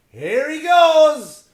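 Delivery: high, drawn-out squeal of a cheer; mock cheer. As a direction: stretch it up high like a sportscaster.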